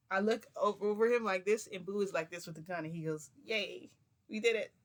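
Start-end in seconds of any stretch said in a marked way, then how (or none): 3.4-4.7 higher, louder little "yay"; imitated happy celebration; retold cheer. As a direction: cheer like a pleased accomplice. Retold cheer after a success.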